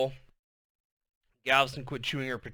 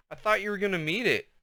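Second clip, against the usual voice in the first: softly; 7 semitones higher, faster than usual. A narrator's reading. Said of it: "she said softly".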